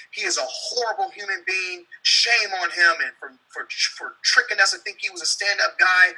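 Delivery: a hint of a smug online commenter; social media gossip. People online condemning him, lightly mocking tone. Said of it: "People on social media".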